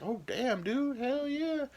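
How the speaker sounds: high, slow hyped bro praise; bro cheering. Retold or imitated. Everyone cheering the guy who slept around, high. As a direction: cheer like an impressed frat buddy. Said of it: "everyone would be like".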